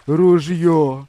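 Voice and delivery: loud gurgled cry in a different voice; spluttered cry. A narrator's reading. The drowning hunter crying for his gun, loud and spluttered. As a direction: spit it out from under the water. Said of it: "булькнув він".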